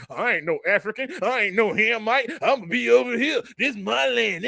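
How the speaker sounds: lightly voiced dumb denier, mocking tone; mock ignorant denier. Mocking the listener who denies African roots, lightly mimicked dumb voice. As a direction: sneer it out as a clueless fool claiming the land. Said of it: "your dumb behind will be like".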